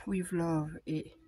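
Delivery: slow English read in a French accent; unhurried label names in French-accented English. Real, not acted. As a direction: spell out With Love and You're Fabulous slowly, French accent. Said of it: "Avec mon accent entre le je sais pas quoi".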